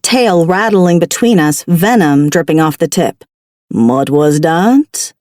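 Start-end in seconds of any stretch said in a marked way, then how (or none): 3.7-5.1 slow, low taunting question; challenging. Acted. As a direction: dare her to repeat it. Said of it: "with a challenging gleam".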